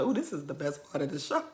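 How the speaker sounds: quiet delighted aside; gleeful murmur. Retold or imitated. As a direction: whisper your glee. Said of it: "And I was like".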